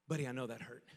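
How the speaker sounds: low, gentle dad voice; soothing dad. Retold or imitated. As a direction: console a hurt little child, low and soft. Dad soothing his crying son.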